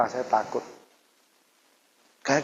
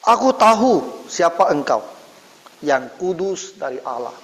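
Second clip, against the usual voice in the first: possessed man declaring; 4 dB louder than usual. Retold or imitated. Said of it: "dia teriak apa".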